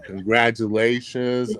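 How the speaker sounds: slow, easy, unhurried reassurance; imitating the chairman's calm, cool reply. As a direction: settle him down slowly. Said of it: "real calm and cool".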